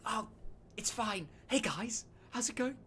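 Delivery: put-on high, bright-eyed boyish king voice; young king. Young king Balyor greets the friends he looks up to, high and eager.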